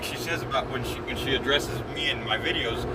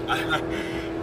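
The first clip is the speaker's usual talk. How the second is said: short breathy laugh. Real, not acted. Laughs at her own remark.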